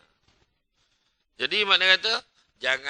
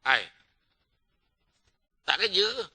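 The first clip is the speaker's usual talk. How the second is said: wife's nagging question; 3 semitones higher than usual. Retold or imitated. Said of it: "Sudah bini tanya".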